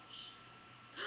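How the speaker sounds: a whispered shush; hushing whisper. Retold or imitated. Shushing herself in a whisper before the story. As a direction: hush herself with a soft shh. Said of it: "I'm like".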